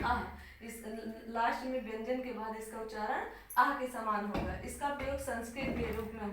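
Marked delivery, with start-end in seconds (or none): 0.0-0.4 आह said as a breathy open aah, held a bit; visarga aah sound. Shown as a demonstration. Teacher showing students how visarga sounds, an open breathy aah. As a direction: let the आह out on a breath like a sigh. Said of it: "क्या कहेंगे?".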